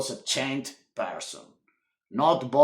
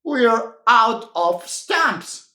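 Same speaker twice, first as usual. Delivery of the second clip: chuckling; 5 semitones higher, 4 dB louder, slower than usual. Acted. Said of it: "chuckled Right".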